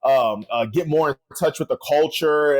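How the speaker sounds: low, hesitant interview answer with filler ums; lightly mimicked athlete soundbite. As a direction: lightly imitate a player rambling at a press interview. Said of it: "he's all like".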